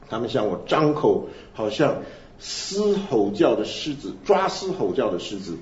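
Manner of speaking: slow, weighty reading of a lament psalm; solemn scripture reading. Acted. Preacher reading Psalm 22 to the congregation, slow and solemn. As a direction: let each line of the psalm sink in slowly.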